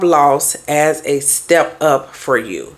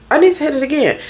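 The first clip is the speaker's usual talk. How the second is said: "I need to hit it again" jumps much higher on "need"; higher emphatic repeat; 9 semitones higher, much faster than usual. Real, not acted. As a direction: push "need" up high, driving the point home.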